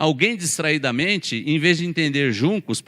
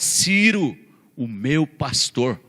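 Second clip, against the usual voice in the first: very slow, stressing "meu pastor" solemnly; lightly voiced solemn God; God speaking; much slower than usual. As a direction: lean on "meu" as a tender, weighty claim. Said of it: "uma palavra mais forte".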